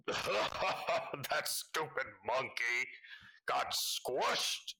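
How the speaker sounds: slow, gloating taunt fading to a whisper; gloating villain. Acted. Villain gloating over the squished monkey, slow gloating taunt. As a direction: savor the insult, then hiss it. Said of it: "this laughing voice go".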